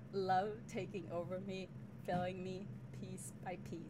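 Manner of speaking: dramatic poetry slam reading; a poem read aloud on stage; nervous open mic poet. Acted. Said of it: "read it, like, as a poetry slam".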